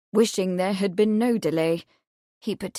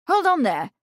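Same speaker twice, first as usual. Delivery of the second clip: a sudden high call to stop them; crying out; 8 semitones higher, 4 dB louder than usual. A narrator's reading. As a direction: shout them down before they move him. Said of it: "Charles cried".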